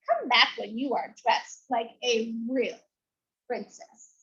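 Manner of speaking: lightly voiced sneering prince; snooty prince. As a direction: look down your nose at her. Snobbish prince scolding Elizabeth.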